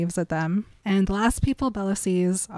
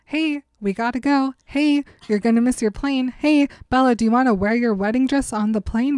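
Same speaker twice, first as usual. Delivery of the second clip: nagging Alice; 4 semitones higher than usual. Retold or imitated. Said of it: "Alice has to tell them, like, five times".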